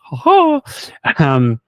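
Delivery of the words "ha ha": laughing. Real, not acted. Laughing at comical questions.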